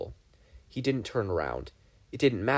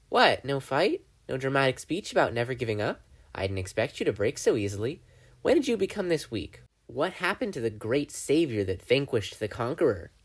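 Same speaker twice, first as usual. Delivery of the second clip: Bill the demon; 3 semitones higher than usual. Acted. Bill mocks Dipper.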